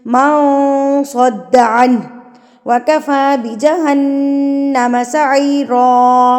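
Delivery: slow, measured tajweed chant; Quran recitation. Acted. Teacher reciting the verse for students, measured chant. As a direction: recite each phrase slowly with long vowels.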